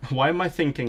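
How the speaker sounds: laughing through "Why am I thinking"; amused at her own mix-up. Real, not acted. Learner laughing at her badminton thought.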